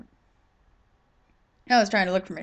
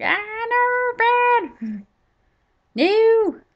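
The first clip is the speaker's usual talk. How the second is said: much higher, louder panicked "no, bad!"; alarmed scolding; 5 dB louder, much slower than usual. To pigmen swarming her house, high panicked scolding. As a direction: yell at them like at a naughty dog.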